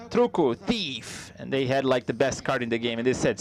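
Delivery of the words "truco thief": a player slowly taunting the table; mock gloating challenge; slow taunting call. Player calling truco in game.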